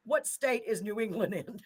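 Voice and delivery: cracking up while confessing a silly question; laughing. Real, not acted. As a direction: say it through suppressed laughter. Cracking up over own Google question.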